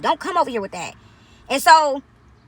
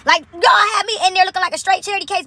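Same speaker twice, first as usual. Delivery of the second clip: exasperated outburst; 4 semitones higher than usual. Real, not acted. Telling her audience about the gas station crowd, exasperated outburst. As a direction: throw it out, half laughing at the indignity.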